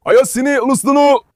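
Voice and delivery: calling out. Real, not acted. Urging friend to pet dog.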